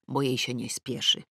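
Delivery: ordinary delivery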